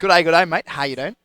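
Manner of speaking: British speaker doing an Australian g'day mate; Australian accent. Pretend. British caster busting out his Australian accent on request. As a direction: put on an Aussie accent on request. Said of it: "you gotta bust it out".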